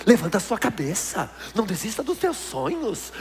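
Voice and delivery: lightly mock gentle psychologist; soothing therapist voice. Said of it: "o que ele começa a falar pra você".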